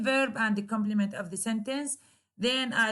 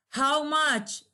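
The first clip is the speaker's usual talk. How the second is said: "How much" starting high, falling on "much"; falling intonation; 5 semitones higher than usual. Shown as a demonstration. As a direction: pitch it up, then drop "much". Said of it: "there is a falling intonation".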